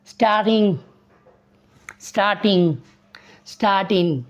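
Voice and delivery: स्टार्टिंग with no hard g at the end; dropping the g. Shown as a demonstration. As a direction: say स्टार्टिंग ending softly, g left out. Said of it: "जी नहीं बोलेंगे". (स्टार्टिंग को आखिर में जी के बिना बोलना)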